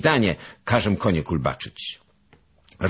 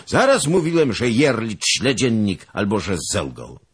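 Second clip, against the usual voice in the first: put-on sudden high outburst of an old nobleman; bursting out; 6 semitones higher, 3 dB louder than usual. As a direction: blurt it out in surprise. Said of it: "wybuchnął Zagloba". (wybuch zdumienia)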